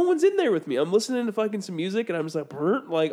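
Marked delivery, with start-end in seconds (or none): 2.5-2.8 short lip-buzz fart imitation; imitated fart noise. Telling friend about farting alone in car, imitated fart. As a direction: casually imitate a little fart.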